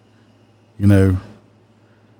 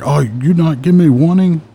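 high, indignant imitation of a Middle Eastern accent; raised-pitch mock Middle Eastern accent; 8 semitones higher than usual. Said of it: "He had a heavy accent".

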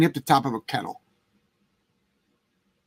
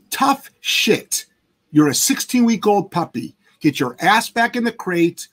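dismissive attitude; slower than usual. Shown as a demonstration. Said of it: "So that's the attitude to have".

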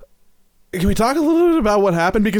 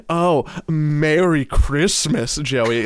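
pointed Merry Christmas; much slower than usual. Retold or imitated. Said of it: "in the exact way you just did".

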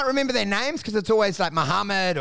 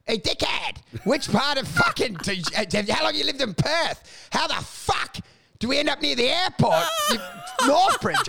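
rising, higher exasperated yell; retold rant; 6 semitones higher than usual. Yelling at the lost Uber driver, exasperated. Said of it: "And I'm like".

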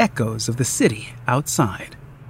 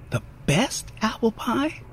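a playful hushed question, softer; whispering along with the game; 6 semitones higher, 8 dB quieter than usual. A narrator's reading. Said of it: "he whispers".

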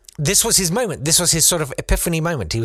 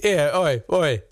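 higher-pitched, badly faked Massachusetts accent; supposed Massachusetts accent; 5 semitones higher, slower than usual. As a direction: do a dubious old Massachusetts accent. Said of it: "in a Massachusetts accent, probably".

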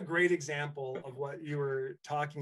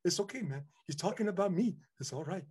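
impression of Simone; 5 dB quieter than usual. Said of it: "He's like".

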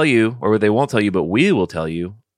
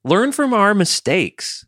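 slow mock sage; 12 semitones higher, slower than usual. Repeated slower, still high.

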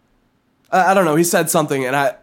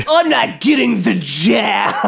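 mock shout; 4 semitones higher than usual. Mocking anti-vaxxer.

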